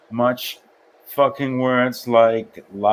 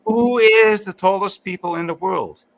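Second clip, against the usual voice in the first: teasing; 8 semitones higher, 5 dB louder than usual. Real, not acted. Playful teasing question.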